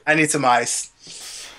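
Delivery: slow, dragged-out whine; slow drawn-out. Shown as a demonstration. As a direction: stretch it out slowly. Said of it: "repeats the line slowly".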